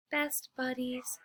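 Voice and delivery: soft, slow whisper; hushed whisper to her dog. Acted. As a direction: breathe it tenderly. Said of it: "she whispers".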